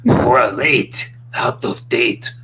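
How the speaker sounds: slow, drawn-out Canadian announcer voice; booming slow announcer intro; Wrestling Jesus voice. Retold or imitated. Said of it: "do your impression of Wrestling Jesus".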